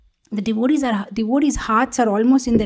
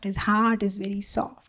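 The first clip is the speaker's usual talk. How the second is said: softly repeated; 2 semitones lower, 5 dB quieter than usual. Shown as a demonstration. Speaker repeats the guru's softness, more quietly. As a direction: let the repeat sink, gentler. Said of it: "humbly said".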